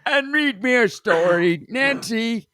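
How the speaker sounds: put-on slow frail old man. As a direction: plead like a sleepy old man. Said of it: "good old man voice".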